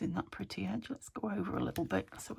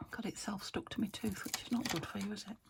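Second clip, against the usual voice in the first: whispering; 6 dB quieter than usual. Real, not acted. Muttering about sweet.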